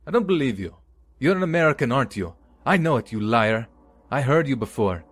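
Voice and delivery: put-on high, loud drunken accusation; shouting. A narrator's reading. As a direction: yell it at the liar. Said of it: "pointed at him and shouted".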